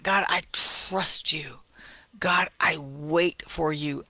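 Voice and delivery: slow, hushed whisper; whispered prayer. Shown as a demonstration. Modelling a private prayer.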